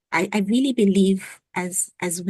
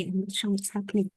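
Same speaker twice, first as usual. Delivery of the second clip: choppy, dropping audio; radio breaking up; 7 dB quieter, faster than usual. Real, not acted. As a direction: voice cutting in and out. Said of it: "You're breaking up".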